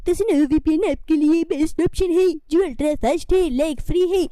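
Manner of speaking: brisk, upbeat ad voice; sponsored ad read. Acted. Presenter pitching app to viewers, upbeat ad read. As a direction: sell the VPN to viewers quickly.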